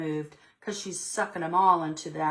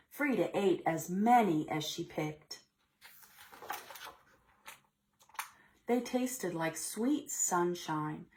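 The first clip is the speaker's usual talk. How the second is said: put-on expressive read-aloud to children; storybook reading voice; story narration; 3 semitones higher than usual. A narrator's reading. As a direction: read it like story time for little kids. Teacher reads picture book aloud.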